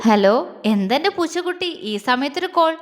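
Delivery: fond, playful phone greeting; lightly teasing, affectionate question; smiling. Acted. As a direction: greet a sweetheart with a smile in the voice. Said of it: "അവൻ ചിരിയോടെ ചോദിച്ചു".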